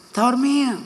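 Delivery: high, put-on declaring voice; a sing-song pronouncement; mock declaring. To himself about sleeping neighbours, in a high put-on voice. Retells what he says seeing sleeper.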